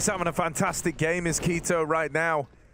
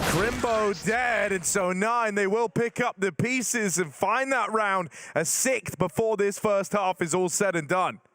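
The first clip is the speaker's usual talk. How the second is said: esports caster; 5 semitones higher than usual. Real, not acted. Calls a kill, round wrap.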